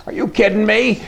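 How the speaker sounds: high disbelieving are you kidding me; incredulous. Real, not acted. Host ranting at Canada's policy, incredulous. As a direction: pitch up in disbelief at the news.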